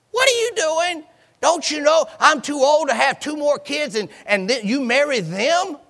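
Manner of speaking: high, incredulous double take; exasperated. Acted. Naomi scolding her daughters-in-law for following her, incredulous. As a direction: throw up your hands in disbelief. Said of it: "She said".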